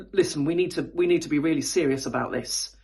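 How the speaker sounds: low register for a meeting warning. Shown as a demonstration. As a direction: pitch it down to sound serious. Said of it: "pitch your voice a little bit lower".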